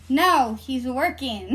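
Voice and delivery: slow, firm no; drawn-out firm refusal, retold. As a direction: refuse slowly and firmly.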